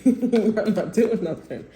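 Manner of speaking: drawn-out, amused mock laziness; mock lazy person. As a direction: laughingly play someone who can't be bothered. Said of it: "if y'all somebody that's lazy".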